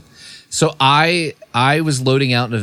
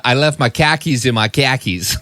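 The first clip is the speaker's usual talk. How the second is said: put-on Boston accent. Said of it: "when you do the Boston".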